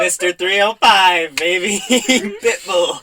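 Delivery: loud, high catchphrase shout; a rapper. Retold or imitated. Joking about international stars, hammed-up rapper shout. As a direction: belt it out like a hype man, drawn out.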